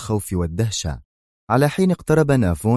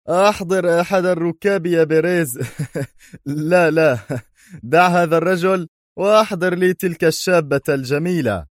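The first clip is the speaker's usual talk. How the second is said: higher cruel villain order; 9 semitones higher than usual. A narrator's reading. Villain orders hostages brought. (صوت شرير آمر)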